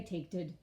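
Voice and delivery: "taked-ed" said as the silly wrong past; wrong form taked-ed. Shown as a demonstration. Teacher naming the wrong word "taked-ed". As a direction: say "taked-ed" like a mistake. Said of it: "we don't say".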